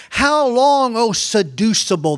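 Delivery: high, loud opening cry, then easing; Wisdom calling out. Acted. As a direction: call out reproachfully as Wisdom in the street. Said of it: "wisdom shouts from the streets".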